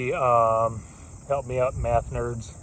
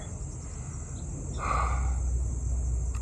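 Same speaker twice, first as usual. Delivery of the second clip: heavy exhale; 8 dB quieter than usual. Real, not acted. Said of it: "catching my breath here".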